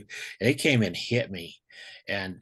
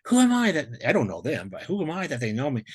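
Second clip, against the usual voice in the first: amazed wondering; 5 semitones higher than usual. Retold or imitated. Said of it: "It's like".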